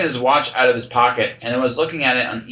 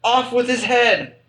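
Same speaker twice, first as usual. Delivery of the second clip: high, slow bellowing Queen; shrieked royal command; bawling Queen; 13 semitones higher, slower than usual. Retold or imitated. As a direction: bawl it like a furious queen. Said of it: "the Queen bawled out".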